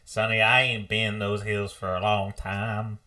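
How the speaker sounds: put-on slow, ominous old-timer drawl; old prospector. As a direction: warn them like a grizzled old miner. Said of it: "I'm just like".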